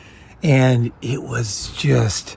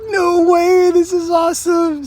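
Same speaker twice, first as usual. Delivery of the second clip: much higher, imitating his own excitement; mock excited reply to the French girls' invite; mock thrilled; slower than usual. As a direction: squeal it like you can't believe your luck. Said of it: "And I was like".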